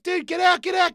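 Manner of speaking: high, loud urgent "get out"; alarmed shout. Retold or imitated. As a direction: yell at him to get out now. Son crying in cold water.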